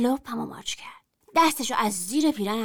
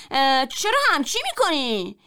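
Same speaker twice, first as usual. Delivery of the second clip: a raised protest, a touch louder and higher; mild shout; 4 semitones higher, 4 dB louder than usual. Acted. Boy cries out as she reaches for his belt. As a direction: call it out in alarm, not full force. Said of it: "داد زدم".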